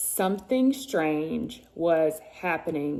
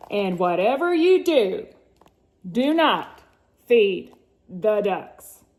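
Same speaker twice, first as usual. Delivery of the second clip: dramatic warning; 6 dB louder than usual. Acted. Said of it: "Hector was warned".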